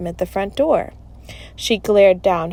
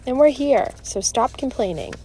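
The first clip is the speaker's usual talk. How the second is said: higher start, settling into a firm order; mildly scolding retort; interrupting scolding; 5 semitones higher than usual. Acted. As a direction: cut the complaint short. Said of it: "Melody interrupted".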